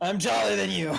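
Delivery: put-on high, taunting kid voice; bratty little kid. Mocking a kid standing on a chair, high taunt. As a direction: boast like a small child. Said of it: "the little kid".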